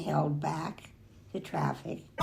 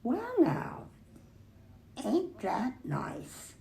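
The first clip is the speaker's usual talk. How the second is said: street sweeper voice; 7 semitones higher, slower than usual. A narrator's reading. The man who swept the streets.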